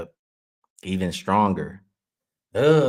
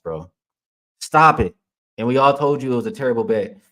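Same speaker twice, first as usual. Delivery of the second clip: raised, fired-up scolding of a chatter; heated rant; 3 semitones higher, 5 dB louder than usual. Real, not acted. Host scolding a rude chatter on stream, angry and loud. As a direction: call out the trash-talking chatter, voice raised. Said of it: "And I don't even talk like this".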